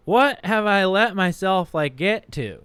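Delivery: loud, high, drawn-out disbelief; dismayed realization. Acted. Re-enacts his shocked epiphany.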